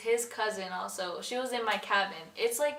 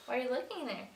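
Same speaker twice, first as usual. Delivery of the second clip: higher-pitched, lightly flirty question; 4 semitones higher, faster than usual. Shown as a demonstration. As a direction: ask it like a playful flirt. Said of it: "flir-, flirty".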